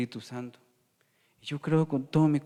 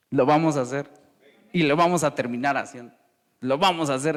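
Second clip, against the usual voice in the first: louder, insistent declaration; emphatic preaching; 7 dB louder than usual. Acted. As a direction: drive the point home to the church. Preaching climax, emphatic repetition.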